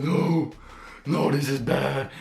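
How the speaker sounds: high, alarmed mock wail; flipping out. Retelling a friend grabbing his head, flipping out. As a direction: act out a friend losing it. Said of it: "Cole's flipping out".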